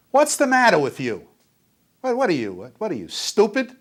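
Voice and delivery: raging father berating his son; father yelling. Retold or imitated. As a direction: scream it at the kid like an enraged dad. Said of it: "dad yelling at child".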